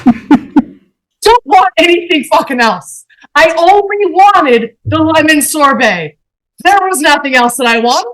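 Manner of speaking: retold meltdown, dragging out the words; exasperated refusal. Customer refusing any other dessert from the waiter, exasperated.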